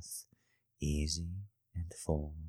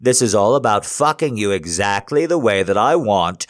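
yelling; 5 semitones higher, 14 dB louder than usual. Acted. Yelling at partner.

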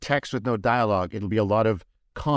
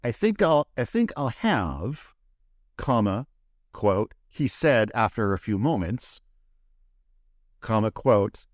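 dictating; slower than usual. Shown as a demonstration. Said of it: "this is just me giving an example".

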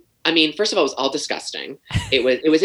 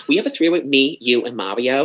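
lightly imitated Bronx accent; casual proposition with a hint of Bronx. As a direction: put on a mild Bronx woman's voice. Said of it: "she had the whole accent".

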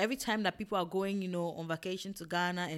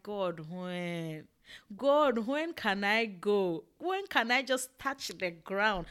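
longing plea; 3 semitones higher, slower than usual. Retold or imitated. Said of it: "I'm like".

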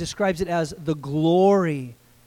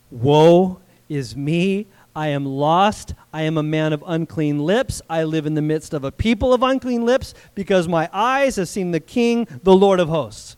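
despairing cry; 4 dB louder than usual. Acted. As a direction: mourn like a man undone.

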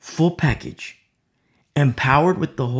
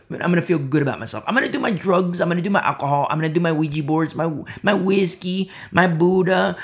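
fast, rattled-off list of indulgences; mock carefree rattle, slightly raised; mock self-satisfied churchgoer; 3 semitones higher, faster than usual. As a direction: reel it off in mocking imitation. Mimics self-satisfied churchgoer listing sins.

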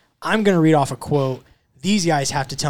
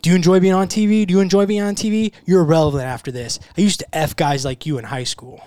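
higher and louder mock trash talk, quick on the first lines; louder taunting reread; 4 semitones higher, 5 dB louder than usual. Host rereading a fighter's taunt to the guys, louder mock trash talk. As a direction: throw the taunt back at him like a fighter would. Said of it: "It was Joseph Benavidez to Henry Cejudo".

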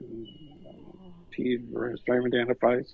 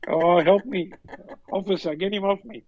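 raised, put-on cry for help; faked distress; 8 semitones higher than usual. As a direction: play a mum hamming up her distress. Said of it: "She's just having to go".

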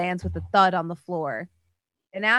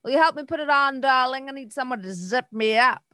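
lady of the house voice; 4 semitones higher than usual. Acted.

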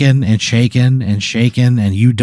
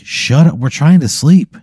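put-on raised, slightly higher kid's complaint; annoyed kid heckling; 4 semitones higher, 3 dB louder than usual. Sleepy kid tells comic off, acted irritation.

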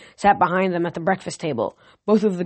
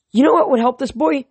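musing; 7 semitones higher, 5 dB louder than usual. A narrator's reading. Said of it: "Demeter mused".

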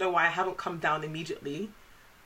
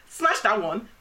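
high laughing squeal; hammed-up excited mum; imitating mum; 5 dB louder, much slower than usual. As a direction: shriek it like mum. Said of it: "she was like".

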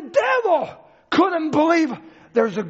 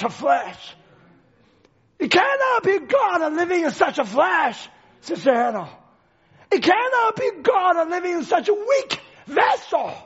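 dramatized devil's disbelief. Acted. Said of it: "let me just dramatize a little bit".

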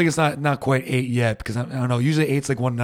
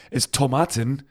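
Tomaten said the German way, toh-MAH-ten; German accent; slower than usual. Shown as a demonstration. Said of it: "maybe I'm saying with a German accent".

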